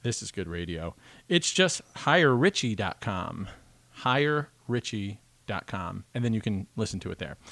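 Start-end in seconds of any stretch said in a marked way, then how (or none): 1.3-3.5 slow, each word of the address laid out; slow spelled-out address. Shown as a demonstration. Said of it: "I'll give you the address". 3.9-6.0 even slower, deliberate repeat of the address. Shown as a demonstration. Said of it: "I'll give you the address".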